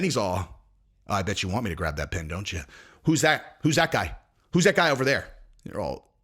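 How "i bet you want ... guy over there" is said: paranoid guy voice. Retold or imitated. Mocking Fabio as paranoid.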